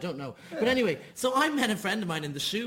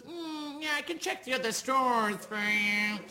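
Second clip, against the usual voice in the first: put-on posh accent; 5 semitones higher, slower than usual. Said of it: "a nicer accent".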